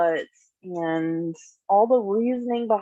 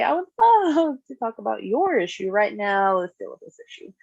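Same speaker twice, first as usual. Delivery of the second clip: nice; 4 semitones higher, 4 dB louder than usual. Shown as a demonstration. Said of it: "And nicely say".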